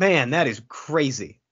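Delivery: laughing through the words, slowed. Real, not acted. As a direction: laugh while saying it. Laughing at absurd TikTok take.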